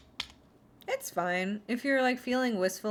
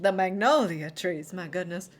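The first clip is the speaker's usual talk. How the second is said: mock southern belle; 4 dB louder than usual. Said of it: "talk to you like a southern belle".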